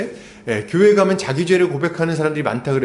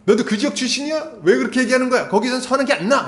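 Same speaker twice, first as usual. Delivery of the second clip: higher, irritated snap-back; retorting in mock annoyance; heated retort; 7 semitones higher than usual. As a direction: Pharisees snapping back at Nicodemus, irritated and higher. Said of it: "이렇게 딱 쏘아붙이죠".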